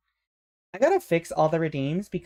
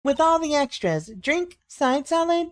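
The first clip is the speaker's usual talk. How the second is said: calling to the kitchen; 12 semitones higher, slower than usual. Acted. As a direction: sing it out to the kitchen. Waitress calls order to kitchen.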